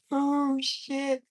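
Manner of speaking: breathless high laugh-words. Real, not acted. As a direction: wheeze it out mid-laugh. Laughing hard at himself.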